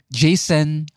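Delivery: posh conyo-school Jason, a touch put on; conyo school accent. Imitating conyo-school students saying Jason. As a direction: mimic a rich-school kid saying Jason. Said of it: "Yung mga konyong school".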